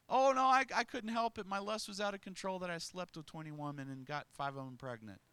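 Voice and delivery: a preacher mocking a sinner's excuse, pleading; mock whiny excuse. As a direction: play the sinner begging off the blame. Mocking excuse before God.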